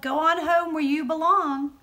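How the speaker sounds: loud, high bossy call. A narrator's reading. Brother orders his sister home, loud bossy call. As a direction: order her home across the crowd. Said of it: "he called".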